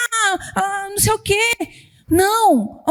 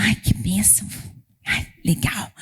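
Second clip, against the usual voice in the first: half-hearted thanks; 10 semitones lower, 6 dB quieter than usual. Retold or imitated. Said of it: "Aí você fala".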